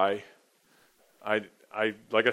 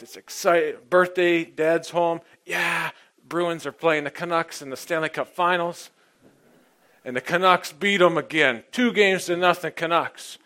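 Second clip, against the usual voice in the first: mock excitement; 5 semitones higher, 3 dB louder than usual. Recalling birthday hockey letdown.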